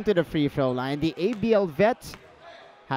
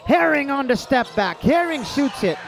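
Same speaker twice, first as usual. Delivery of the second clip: higher-pitched, building anticipation; excited shot call; 4 semitones higher than usual. Real, not acted. Announcer following a step-back jumper, tense excited call. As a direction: lift the voice as the shot goes up.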